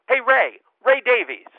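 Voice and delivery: loud, high call across the bar; shouting across a pub. Retold or imitated. Friend shouts to a rock star across the pub, loud and high. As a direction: yell his name to get his attention. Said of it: "our young friend shouts out".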